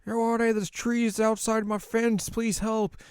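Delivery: high, slow put-on lady voice; pleading lady. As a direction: plead for help as a townswoman. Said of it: "this lady's like".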